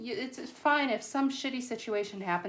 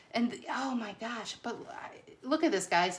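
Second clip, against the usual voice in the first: tripping over words in real excitement; excited stutter; 3 semitones higher than usual. Real, not acted. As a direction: stumble over the words, too thrilled to get them out. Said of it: "I'm stuttering because I'm so excited".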